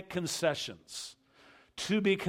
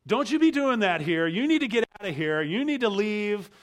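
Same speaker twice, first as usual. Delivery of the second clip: retold angry merchant; 3 semitones higher, 5 dB louder than usual. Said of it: "He is screaming at us practically".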